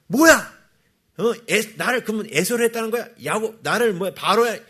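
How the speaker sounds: mock-outraged protest; acted indignation. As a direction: mimic someone getting worked up. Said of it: "막 열받는 사람들 있잖아요".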